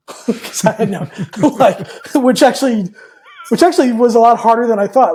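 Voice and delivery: laughing through the words. Real, not acted. Recalling his cluelessness, laughing. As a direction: talk while breaking into laughter.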